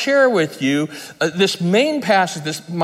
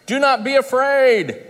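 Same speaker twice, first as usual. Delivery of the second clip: higher, slow and gentle, like Jesus calming the disciples; Jesus speaking; 7 semitones higher than usual. Retold or imitated. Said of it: "He says".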